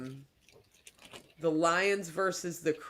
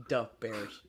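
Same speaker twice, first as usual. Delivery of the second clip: lower-pitched mock Chicago accent; 5 semitones lower than usual. Showing how they have to say it, Chicago accent. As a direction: say it like a Chicago fan, "da Bears". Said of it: "They have to say it like".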